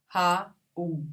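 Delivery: "Raul" in two beats, ra-ul; separated vowels. Shown as a demonstration. Teacher showing a hiatus, vowels separated. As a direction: pause between a and u in "Raul". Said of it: "Se separam".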